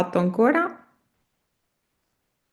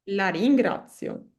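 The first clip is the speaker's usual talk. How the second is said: slow model pronunciation; 3 dB quieter than usual. Shown as a demonstration. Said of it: "teacher models the phrase slowly".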